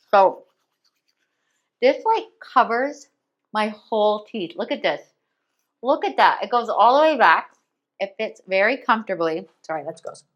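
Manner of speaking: talking around a toothbrush; words muffled by a brush in the mouth; mouth full. Real, not acted. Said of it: "hard to talk with a toothbrush in my mouth".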